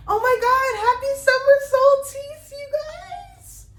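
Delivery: very high, loud excited cheer; piercingly high, celebratory holler; voice-straining squeal. Real, not acted. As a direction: shriek the greeting with long held notes. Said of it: "let me not mess up my voice".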